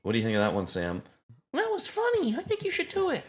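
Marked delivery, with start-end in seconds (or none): 1.5-3.2 falsetto, feminine mock German-French accent; very high, hammed-up European accent, somewhere between German and French; mixed German-French accent. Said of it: "your accent's much better".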